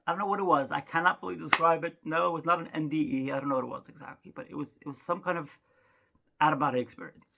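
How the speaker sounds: ordinary talk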